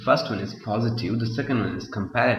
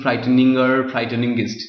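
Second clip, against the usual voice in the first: wrong form; 5 dB louder than usual. Shown as a demonstration. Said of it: "You can't say frightening".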